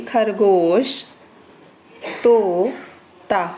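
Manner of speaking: तोता drawn out very slowly, each syllable held; slow demo reading. Shown as a demonstration. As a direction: stretch तोता slowly for the class. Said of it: "इसको हम पढ़ेंगे".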